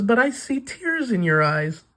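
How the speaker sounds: gently insist, high and sweet; Batsy voice. Acted. Batsy presses the crying old man, high and gentle. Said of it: "She says".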